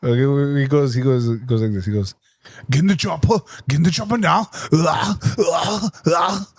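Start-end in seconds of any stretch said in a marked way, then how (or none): 2.7-6.5 put-on a light Austrian action-hero accent; lightly voiced Austrian action hero; Arnold impression. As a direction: growl it like a movie muscleman. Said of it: "That is how he does it".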